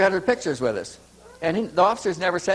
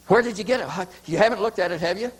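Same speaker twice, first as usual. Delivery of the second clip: urgent, higher-pitched questioning; anxious and breathless; alarmed; 5 semitones higher, faster than usual. Retold or imitated.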